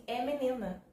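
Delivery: blunt, cold doctor's tone; dry and curt. Retold or imitated. Doctor telling the mother she is having a girl, dry and curt. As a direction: imitate the doctor's dry delivery. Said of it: "Assim, seca".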